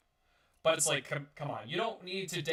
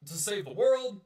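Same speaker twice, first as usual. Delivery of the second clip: mocking skeptic; 4 semitones higher than usual. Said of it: "Now you might say".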